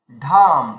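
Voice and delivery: ঢাম with a low, loud aspirated retroflex ঢ; Sanskrit ḍh sound. Shown as a demonstration. Teacher demonstrating ঢাম to the class with a loud aspirated ঢ. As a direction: hit ঢাম deep and breathy on the ঢ. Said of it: "এভাবে উচ্চারণটা টানতে হবে".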